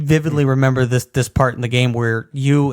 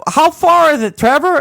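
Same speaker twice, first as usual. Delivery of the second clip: high, loud, whiny mock junkie; meth head voice; 13 semitones higher, 5 dB louder than usual. Retelling a GTA scene, high whiny junkie voice. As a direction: squeal it like a twitchy passenger in the back. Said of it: "and he's like".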